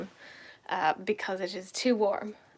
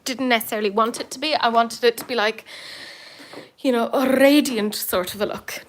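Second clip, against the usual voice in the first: put-on posh voice; 6 dB louder than usual. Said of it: "Don't know why I'm talking like that".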